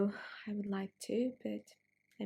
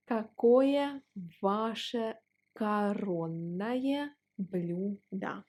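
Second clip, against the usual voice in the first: slow polite model; slower than usual. Shown as a demonstration. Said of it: "If you want to sound more polite".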